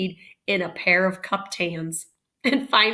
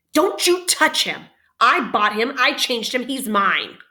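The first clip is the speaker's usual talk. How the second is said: put-on possessive child; 4 semitones higher, 4 dB louder than usual. Boys quarrel over cowboy.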